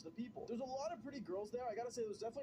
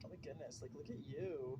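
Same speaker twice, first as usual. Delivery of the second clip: imitating girls; 6 semitones lower than usual. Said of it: "they were kinda like".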